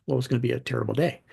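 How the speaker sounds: matter-of-fact gloom. Retold or imitated. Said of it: "she said it like".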